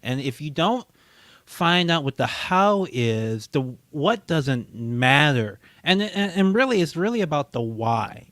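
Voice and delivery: lightly mocked politician's earnest speech; improvised mock-profound political answer; parody politician. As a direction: stretch key words, searching for meaning.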